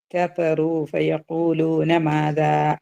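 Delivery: very slow tajweed chant; slow Quranic recitation. Shown as a demonstration. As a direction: recite it slowly, drawn out. Recites verse.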